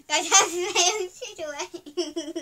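slow words through laughter; giggling while explaining; stifled giggles. Real, not acted. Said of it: "I laugh very easily".

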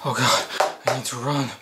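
soft panicked murmur; frightened hush. Acted. Hiding victim murmuring softly in fear. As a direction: hush it so he won't hear. Terrified whispering while hiding.

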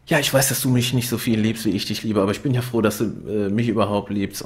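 a hint of a clingy, babbling boyfriend; rambling lover. Retelling Alex's gushing speech, lightly voiced. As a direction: gush on without stopping. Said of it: "fängt an zu labern".

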